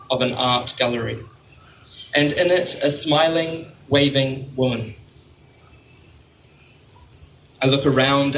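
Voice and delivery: measured recital with pauses between phrases; poetry reading. Real, not acted. Poet reading a lighthouse poem to an audience, measured poetry-reading voice. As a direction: read it as a poem, letting line ends fall.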